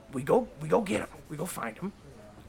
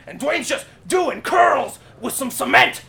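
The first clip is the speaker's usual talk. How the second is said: hyped shout; 4 semitones higher, 4 dB louder, slower than usual. Real, not acted. Hyped movie retelling.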